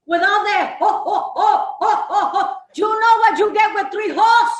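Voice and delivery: loud laughing ho ho ho; a hint of Santa's ho ho ho; mock ho ho ho. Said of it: "Mrs Claus mocking Santa's laugh".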